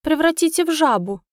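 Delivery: high, shrill-edged begging plea; pleading elf. A narrator's reading. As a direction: beg for the toad curse. Elf begs witch for curse.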